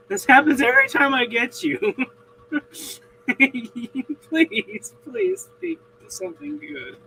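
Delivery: high, loud begging voice; pleading messenger. Retold or imitated. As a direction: beg desperately in a high voice.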